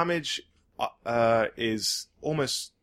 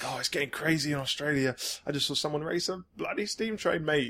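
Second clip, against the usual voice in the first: lightly put-on Australian radio DJ; a hint of Australian DJ accent; 4 semitones higher, 3 dB quieter than usual. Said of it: "was that your Australian accent".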